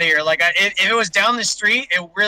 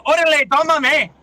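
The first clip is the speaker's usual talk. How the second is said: higher-pitched hammed-up cholo accent; cholo accent, slightly Asian; 7 semitones higher, 4 dB louder than usual. Storming in on the teacher, in a botched cholo accent. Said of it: "there was a little Asian in there".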